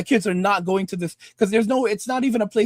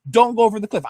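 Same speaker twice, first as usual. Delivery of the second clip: reading the sign; 4 dB louder, faster than usual. Retold or imitated. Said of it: "It says".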